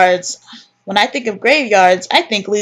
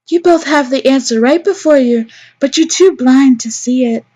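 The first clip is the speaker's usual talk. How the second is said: higher, forceful character voice; chiding character; 5 semitones higher, 3 dB louder than usual. Acted. Character telling two others they are blind, chiding raised voice. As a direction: pitch it up and chide them.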